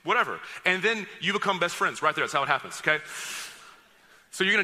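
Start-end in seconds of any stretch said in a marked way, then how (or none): 0.0-0.4 friendly greeting demo. Shown as a demonstration. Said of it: "you go".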